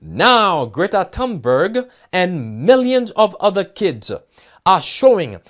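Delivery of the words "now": a slight extra weight on now; stress on now. Shown as a demonstration. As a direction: lean on now as the sentence opens. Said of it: "emphasis on the word now".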